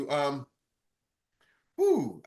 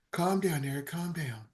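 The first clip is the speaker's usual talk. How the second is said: inner voice; 8 dB quieter than usual. Retold or imitated. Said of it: "It's just like".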